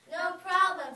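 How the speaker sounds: loud cheerful no problem; witch exclaiming. Acted. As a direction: toss it off proudly.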